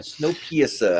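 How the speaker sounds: mock New Zealand accent on the movie title; imitation Kiwi accent, vowels bent. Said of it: "fun to do in a New Zealand accent".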